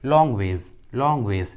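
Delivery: long ways ending in a Z sound; final S as Z. Shown as a demonstration. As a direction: model long ways twice, S said as Z. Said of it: "एस का उच्चारण ज हुआ है". (long ways में S को "ज़" बोलते हुए)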